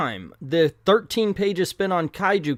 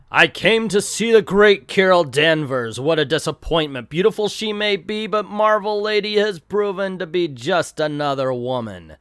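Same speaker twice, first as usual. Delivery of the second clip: grandiose comic-book villain, lightly hammed; mock-pompous villain declaration; lightly acted boastful villain; 4 dB louder than usual. Reads villain's boast aloud.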